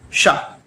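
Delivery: curled retroflex शा, tongue bent up like ट; retroflex sha demo. Shown as a demonstration. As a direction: say शा with tongue curled back to the roof. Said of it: "मूर्धा में जीभ को स्पर्श करके बोलना है".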